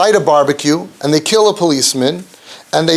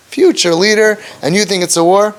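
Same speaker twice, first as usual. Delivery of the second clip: mildly incredulous jab, slightly lifted; retold put-down, lightly voiced; pointed dig; 4 semitones higher than usual. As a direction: needle him with a doubting question. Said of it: "The dig".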